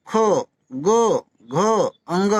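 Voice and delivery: खो गो घो drawn out slowly from the throat; slow velar drill; throat sounds demo. Shown as a demonstration. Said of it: "देखो अब भीतर से आवाज निकल रही है".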